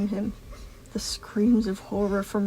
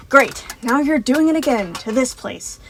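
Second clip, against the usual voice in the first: louder, fed-up exasperation; exasperated at him wrecking the place; 3 semitones higher, 6 dB louder than usual. Acted. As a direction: sigh out your irritation loudly. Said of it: "her exasperated tone".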